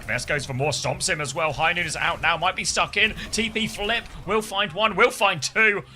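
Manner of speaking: lively play-by-play, rising with the action; esports caster. Acted. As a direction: call the match like a live caster. Casting the match live.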